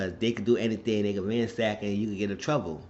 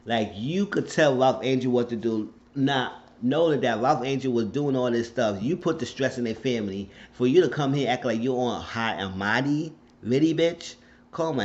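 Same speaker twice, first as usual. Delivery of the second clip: angry rant; 4 semitones higher, 5 dB louder than usual. Real, not acted. Ranting at character's return.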